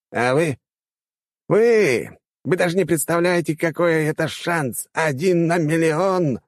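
high-pitched exclaiming, drawn out at the end; shouting rector. A narrator's reading. Rector selling teachers their chance, shouting. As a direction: build to a high, stretched-out cry. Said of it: "Последние слова ректор кричал во всю глотку".

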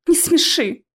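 scoffing. Acted. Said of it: "фыркнула Алиса".

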